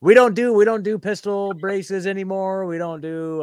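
high, put-on frantic disclaimer, loud at first; mock-panicked denial. Joking denial to imagined ATF listeners.

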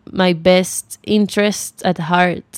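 English phrase dropped into Spanish; slow, careful English phrase mid-Spanish; spanglish. Real, not acted. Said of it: "perdón por el Spanglish". (frase en inglés en medio del español)

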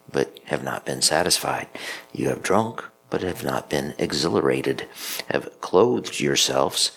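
measured liturgical reading; scripture reading. Acted. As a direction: read it like scripture at mass.

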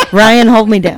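laughing. Real, not acted. Laughing while asking for help.

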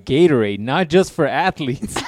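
hammed-up commercial read; mock ad read. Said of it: "mock Gatorade ad".

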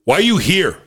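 high-pitched mock confrontational yell; imitated yelling. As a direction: act out a friend yelling at someone. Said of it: "Like, yelling at him".

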